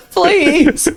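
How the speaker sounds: high-pitched "please" through laughter; laughing plea. Real, not acted. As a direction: laugh helplessly while saying it. Laughs off partner's challenging question.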